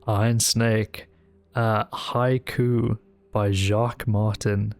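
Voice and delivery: slow, measured haiku reading; poem reading. Acted. Reading the newspaper haiku to chat, slow poem voice. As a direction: read it like a solemn little poem. Reads a haiku aloud slowly.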